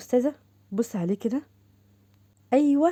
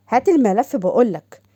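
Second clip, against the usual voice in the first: louder and slower, hammering the order home; slow and loud on هات الملف بقولك, making clear it won't be asked again; firm repeated demand; 5 dB louder than usual. Acted.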